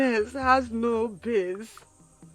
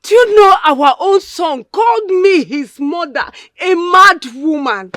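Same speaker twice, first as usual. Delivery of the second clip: crying complaint; 4 semitones higher, 9 dB louder than usual. Acted. Mother crying to neighbour.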